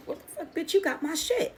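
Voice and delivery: high, loud accusing yell; retold yell. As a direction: shout the accusation, voice shooting up. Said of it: "as I yelled it".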